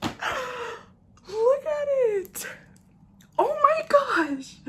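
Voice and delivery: high, drawn-out gasping wonder; slow, high coo of amazement; real awe. Real, not acted. Awed first look at the palette.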